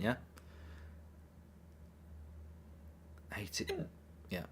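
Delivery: talking through hiccups; hiccuping between words. Real, not acted. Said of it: "Oh, I've got the hiccups now".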